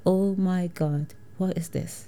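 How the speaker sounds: slow, hushed disbelief; stunned hush. Retold or imitated. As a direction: breathe it out in shock. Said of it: "I'm like".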